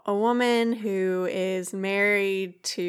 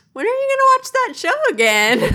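high, fast eager question; 9 dB louder, faster than usual. Retold or imitated. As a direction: beg to keep watching, all eager. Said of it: "And now I'm like".

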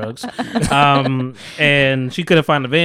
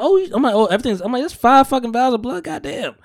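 mock alarm at five vials of blood; retold shock; 9 semitones higher than usual. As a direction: act stunned by how much blood.

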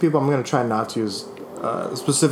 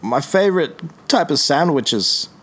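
slow, lightly voiced actor impression; 2 semitones higher, slower than usual. First attempt at a mystery actor for guessing friends, slow impression. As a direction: slowly attempt a film actor's voice. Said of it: "it's an actor".

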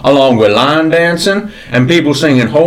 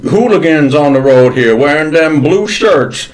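lightly voiced old Southern gentleman, gruff; a hint of a cranky Southern colonel scolding; mild drawling Southern old-timer. S1 holds a Southern gentleman character.

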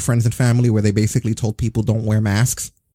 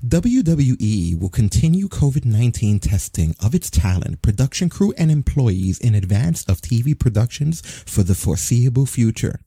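slow robotic announcement read; automated kiosk voice. Retold or imitated. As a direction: read it like a mall kiosk recording. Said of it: "like an automated voice in a mall kiosk".

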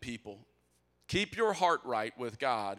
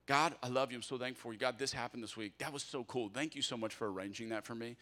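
soft, much quieter, heartfelt talk to God; whisper-close thanks to a friend; intimate prayer; 3 semitones lower, 6 dB quieter than usual. Shown as a demonstration. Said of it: "that's what my conversations with God sound like".

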